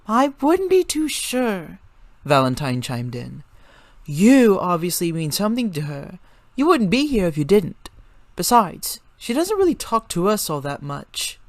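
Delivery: high, bright-voiced young girl; high girl voice, friendly introductions; girl character voice. A narrator's reading. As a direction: lift into a girl's high voice for Valentine. Valentine's high voice again.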